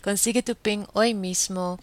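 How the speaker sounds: a grin breaking through the slogan; amused reread. Shown as a demonstration. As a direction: reread the slogan with amusement, hoy mismo pushed up. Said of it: "ahora yo tengo que reír".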